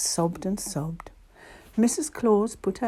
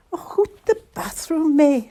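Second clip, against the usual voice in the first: high, loud scolding shout; exasperated raised voice, high in pitch; 9 semitones higher, 8 dB louder than usual. A narrator's reading. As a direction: shout the reindeer out of the bathroom. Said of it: "she would shout every morning".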